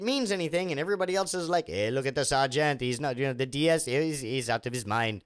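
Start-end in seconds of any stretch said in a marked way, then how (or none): 1.7-5.2 mock British accent, lower; unplaced accent. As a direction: lower pitch, vague British accent, playing a TV sergeant. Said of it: "I don't know what accent that is".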